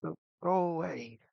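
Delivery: high-pitched, drawn-out anguished protest; distressed pleading. Acted. Old man grabbing his head at visions, distressed pleading. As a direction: plead with unseen tormentors, pitch up.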